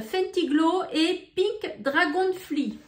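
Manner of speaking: real French accent on English names; English shade names read slowly in a French accent. Real, not acted. Beauty vlogger reading gloss shades to viewers, French-accented English. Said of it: "l'accent anglais".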